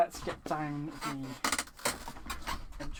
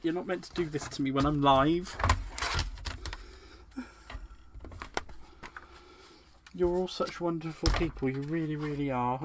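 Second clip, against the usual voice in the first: emotional thanks; 2 semitones higher, 3 dB louder than usual. Real, not acted. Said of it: "I can get emotional".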